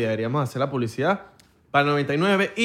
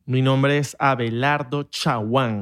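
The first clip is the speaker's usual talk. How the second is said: slow, weighty self-introduction; dramatic name intro; slower than usual. Shown as a demonstration. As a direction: give your own name some drama. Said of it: "quería darle emoción a mi nombre".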